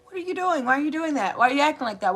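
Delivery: high, pleading string of questions; high-pitched questioning. Retold or imitated. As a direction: start way up high and plead for an explanation. Acting out anxious, rapid questioning.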